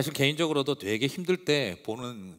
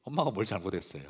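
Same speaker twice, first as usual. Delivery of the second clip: normal talking voice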